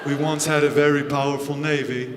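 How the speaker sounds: low, soft British murmur; softly mumbled British accent impression; impression of a singer. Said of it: "He's like".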